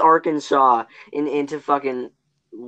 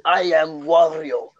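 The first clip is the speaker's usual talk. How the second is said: Russian Wario soldier. Pretend. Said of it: "we fucking fly to, fly to Russia".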